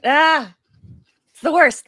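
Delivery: strained pre-sneeze voice; about to sneeze. Real, not acted. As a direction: voice tight before a sneeze. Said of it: "I'm gonna sneeze".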